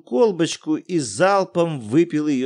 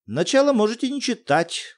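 lightly voiced schoolboy, higher; eager boy pointing at the paper; Kolya voiced higher; 9 semitones higher than usual. Коля говорит с академиком. (мальчик Коля, голос выше)

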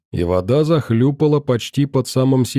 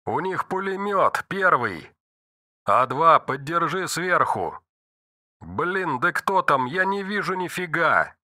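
panicked under fire; 4 semitones higher, 6 dB quieter than usual. Acted. Radio calls under fire.

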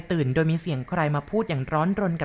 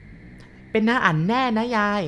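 put-on very slow, higher questioning child; doubtful boy; 5 semitones higher, much slower than usual. Boy asks grandma doubtfully if it was really him. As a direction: stretch it out in doubt.

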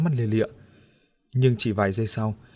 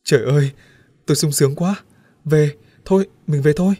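loud, higher joyful outburst; overjoyed; 4 semitones higher, 6 dB louder than usual. Acted. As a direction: burst out with delight. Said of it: "nhảy cẫng lên". (sung sướng reo to)

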